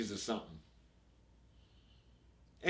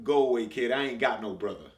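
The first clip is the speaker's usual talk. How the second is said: louder, dismissive tough guy; gruff brush-off; 6 dB louder than usual. Acted. Telling the little kid to leave, a loud gruff brush-off. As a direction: push the kid away with a rough bark.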